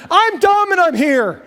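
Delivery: high goofy voice, laughing through it; spasticky dog voice. Retold or imitated. Pastor imitating a goofy dog, laughing and high. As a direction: play the dumb, overexcited dog. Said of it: "kinda spasticky".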